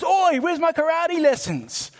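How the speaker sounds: high, slow, indignant demand; a fed-up kid calling out his teacher; confronting Miyagi. Retold or imitated. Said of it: "he confronts Miyagi and says".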